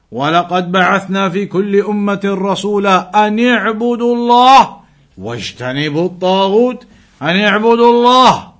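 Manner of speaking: rapid Arabic recitation; Quran recitation. Acted. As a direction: recite the verse quickly in one breath. Recites Quran verse fast.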